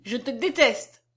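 put-on slow, emphatic child's hatred; crying out. A narrator's reading. Little girl to the man she detests, exclaiming. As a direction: spell out your loathing, as a little girl. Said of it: "s'écria-t-elle".

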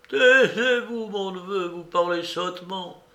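put-on high old beggar's stern reproof; grave rebuke. A narrator's reading. Old uncle silencing his nephew, grave high-voiced rebuke. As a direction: hush him sharply, then lecture with gravity. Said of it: "reprit Caloche avec gravité".

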